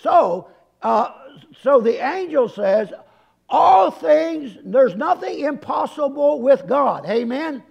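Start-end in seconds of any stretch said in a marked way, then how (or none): 3.5-7.1 loud opening on ALL THINGS, then easing; raised, declarative preaching voice; emphatic proclamation. Acted. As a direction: proclaim the angel's words to a congregation. Preacher proclaims the angel's words.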